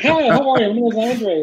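hammed-up job-seeker greeting; eager introduction. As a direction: pounce with a chirpy self-introduction. Acts pouncing on the job, laughter.

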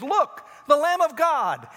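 high, loud and slow; proclaiming again. Retold or imitated. Baptist pointing Jesus out again, loud slow cry. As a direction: announce it with awe. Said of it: "He says".

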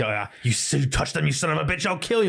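threatening. Retold or imitated. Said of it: "his really serious, threatening voice".

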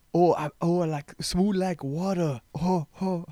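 put-on slow and smooth like water, Asian accent; Asian man voice. Vlogger trying a new impression, a high slow smooth Asian accent. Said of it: "Maybe, like, an Asian man".

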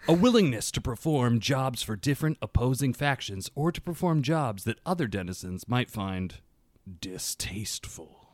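measured, dramatic read-aloud with deliberate pauses; best reading voice. Real, not acted. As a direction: read the lore aloud, lowering the line endings. Reading faction lore aloud.

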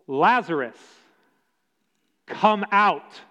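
a ringing shout, pitched high; loud call. A narrator's reading. Jesus calls Lazarus out of the tomb, loud ringing shout. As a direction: call a dead man out of the tomb. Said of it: "Jesus called out in a loud voice".

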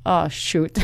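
laughing dismay. Retold or imitated. Dreading the same clerk again.

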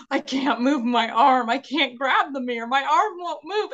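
imitating her own freak-out; retold panic. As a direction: replay the dentist-chair panic, half laughing at it. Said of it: "And I'm freaking out".

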